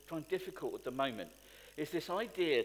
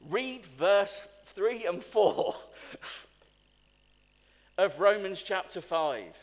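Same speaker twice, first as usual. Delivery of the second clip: slow emphasis; 6 dB louder, slower than usual. Real, not acted. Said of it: "emphatic instruction".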